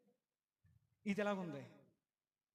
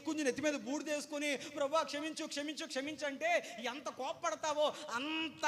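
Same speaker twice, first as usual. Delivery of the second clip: lightly voiced indignant Jonah, higher; mock complaint raised a little in pitch; Jonah complaining to God; 5 semitones higher than usual. Jonah grumbling to God, lightly acted complaint. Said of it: "ఏమన్నాడో".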